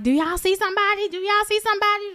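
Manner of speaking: high, insistent repeated question; retold searching question. Onlookers checking the stuck car, high anxious asking.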